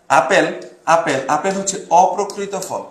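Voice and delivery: slow, deliberate, অপ্রকৃত stressed; slow emphasis. Shown as a demonstration. Teacher drills mnemonic to class, slow and deliberate. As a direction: spell it out slowly for students. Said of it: "এই যে আপেলে অ আছে".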